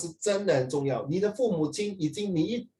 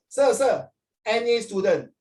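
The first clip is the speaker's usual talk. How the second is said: higher, louder cheeky student voice; mock student; 5 semitones higher, 4 dB louder, slower than usual. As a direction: act the cocky student, pitched up. Student answers teacher in classroom skit.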